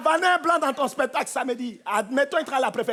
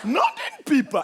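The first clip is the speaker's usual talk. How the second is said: much higher, hammed-up gasp of surprise; mock shocked lady; 10 semitones higher, much slower than usual. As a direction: squeal it like a prim lady. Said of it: "elles hallucinent tout le temps".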